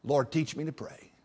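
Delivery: soft plea to God; humble prayer. Retold or imitated. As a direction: drop to a quiet, humble request. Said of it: "I told the Lord here not long ago".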